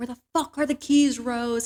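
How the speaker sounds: play-acted tense shouting, rising tension. Retelling a movie scene where the character yells for keys: imitating a character yelling. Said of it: "Chris is just yelling".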